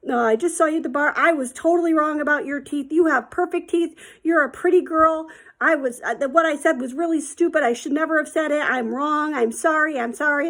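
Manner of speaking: lightly voiced nervous man backtracking; sheepish apologizer. Stranger forced to phone the girl and apologize, sheepish.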